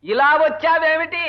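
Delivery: drawn-out, deliberate asking; slow pointed question. Acted. Husband asks hard-of-hearing wife why she came, slowly and pointedly.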